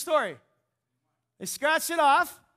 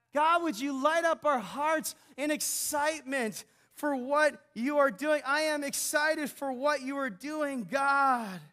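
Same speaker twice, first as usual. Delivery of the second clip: fervent prayer. Real, not acted. Preacher breaks into prayer.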